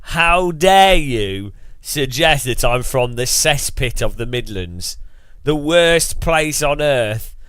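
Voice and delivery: mock indignant rant. Streamer ranting at chat, slow mock disgust. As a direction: drag out the fake disgust.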